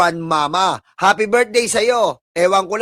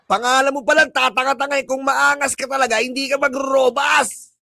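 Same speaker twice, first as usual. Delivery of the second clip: angry taunt; 3 semitones higher than usual. Real, not acted. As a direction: scold the viewer, building to a shout. Taunting the viewer again.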